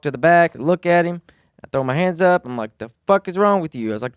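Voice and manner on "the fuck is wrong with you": higher, louder exasperated shout at the other driver; retold angry yell. To the drunk driver who hit him twice, a retold furious yell. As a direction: throw up your hands and yell.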